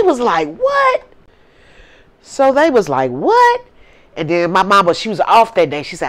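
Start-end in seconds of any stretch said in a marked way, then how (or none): 0.6-1.0 stunned "what". Retold or imitated. Family stunned by story. 3.1-3.6 stunned "what". Retold or imitated. Family stunned again.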